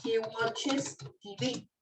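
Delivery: slow teacher demo of "He watches T V"; teacher's slow model of "watches"; slow model sentence. Shown as a demonstration. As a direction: say "watches" slowly, each sound clear. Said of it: "Y entonces yo digo".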